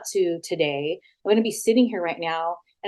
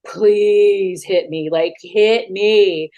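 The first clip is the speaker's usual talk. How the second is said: slow, louder, drawn-out provocation; daring him to swing, each word stretched; retold loud dare; 5 dB louder, much slower than usual. Daring him to hit her.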